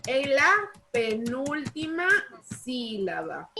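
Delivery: measured dictation in separated chunks; dictating. Real, not acted. Teacher dictates the definition to pupils, paused dictation. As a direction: pause between phrases so pupils can write.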